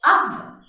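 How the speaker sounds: oven high and loud as UH-vun; correct pronunciation. Shown as a demonstration. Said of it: "It is pronounced as".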